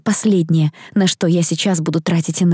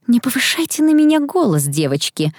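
high reprimand, dropping on the last word; строгая комендантша; 6 semitones higher than usual. A narrator's reading. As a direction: rebuke the girls from a position of authority. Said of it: "сощурилась госпожа Келман". (строгое одёргивание высоким голосом)

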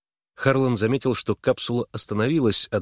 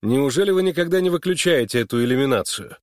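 higher-pitched exclaimed question; exclaiming; 5 semitones higher, 3 dB louder than usual. A narrator's reading. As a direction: keep the outburst going through the question. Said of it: "воскликнул он".

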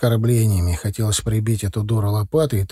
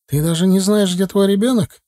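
higher, indignant reproach; raised voice; 7 semitones higher, 3 dB louder than usual. A narrator's reading. Mother accuses the father, voice raised. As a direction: accuse him outright. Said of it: "повысила голос Оксана".

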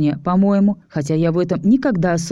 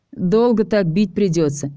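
slow, snide remark. Acted. Ches mocking Tanya hitting the wall, snide. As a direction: drawl it out mockingly. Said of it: "съехидничал Чес".

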